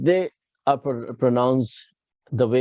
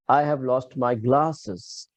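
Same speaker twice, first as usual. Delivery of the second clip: slow sentence with emphasis landing on "glasses"; stress on GLASSES; much slower than usual. Shown as a demonstration. Teacher tests students on word accent, stressing "glasses". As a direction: lean on the last word, "glasses", unhurried. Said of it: "Where did I put accent on?".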